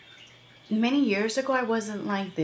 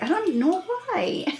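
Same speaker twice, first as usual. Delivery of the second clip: high, drawn-out whine; 11 semitones higher, 4 dB louder than usual. Retold or imitated. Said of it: "And I'm like".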